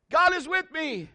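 high declaring call; high, projected shout of faith. Acted. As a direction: holler it out to the mountain. Dad demonstrates shouting to echo.

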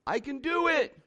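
lighter, high-pitched answering call; echo calling back. Acted. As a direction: imitate an echo returning.

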